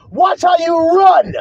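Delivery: slow, driven shout at the cowards; preaching shout. Real, not acted. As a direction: call them out from the pulpit. Preaching rebuke building.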